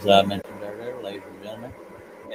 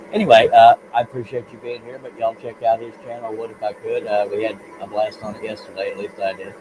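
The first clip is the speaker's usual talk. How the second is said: distant speakerphone sound, mic aimed away; like talking through a speakerphone from across the room; 3 dB louder than usual. Real, not acted. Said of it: "you sound like you're on a speakerphone".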